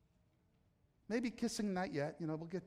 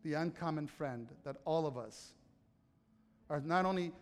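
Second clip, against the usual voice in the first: soft close; 6 semitones lower, 8 dB quieter than usual. Real, not acted. Soft closing over music.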